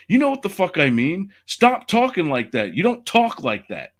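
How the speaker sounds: heated, high-pitched mock confrontation; upset, retold. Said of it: "was, like, upset at the".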